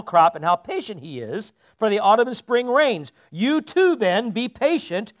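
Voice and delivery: slow, measured Bible reading; solemn scripture read. Acted. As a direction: read it to the congregation, weighty and deliberate. Reads scripture aloud.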